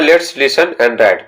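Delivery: each word spaced out slowly; very slow dictation. Shown as a demonstration. Teacher reading the instruction aloud to students, very slow. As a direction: read it slowly for the class to follow. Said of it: "तो बोला जा रहा है".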